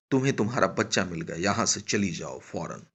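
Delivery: brisk, mildly menacing dismissal; hurried constable's command; threatening order. Acted. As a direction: send her off with a quick warning. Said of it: "धमका कर कहा".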